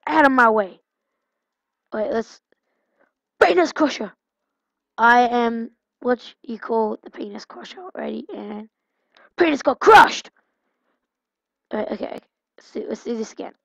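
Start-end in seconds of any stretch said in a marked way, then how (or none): 3.4-4.1 hammed-up battle cry; mock announcer shout. Announcing a silly wrestler name. 9.4-10.3 hammed-up higher, louder put-on voice; mock gloating cry.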